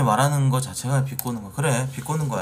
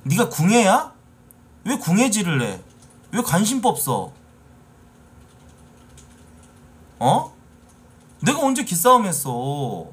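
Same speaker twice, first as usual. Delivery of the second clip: heated rant; 6 semitones higher than usual. Real, not acted. Streamer rants at a chat commenter.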